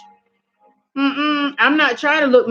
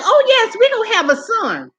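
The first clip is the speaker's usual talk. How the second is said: imitating husband; 8 semitones higher than usual. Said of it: "He was like".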